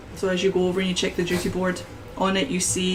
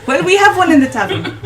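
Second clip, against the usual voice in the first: put-on southern accent; 10 semitones higher, 10 dB louder, faster than usual. Barkeep voiced in southern accent.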